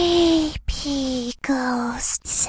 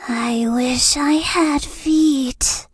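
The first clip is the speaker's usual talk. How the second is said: wistful ghostly whisper; a ghost confiding a sad wish; eerie whispered longing; creepy ghost whisper; 2 semitones lower than usual. Acted. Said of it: "Or do I sound kind of creepy".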